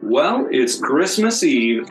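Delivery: ordinary talk, nothing marked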